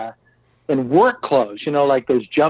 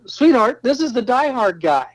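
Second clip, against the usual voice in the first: excited announcement; 8 semitones higher than usual. Retold or imitated. Calling wife over excitedly.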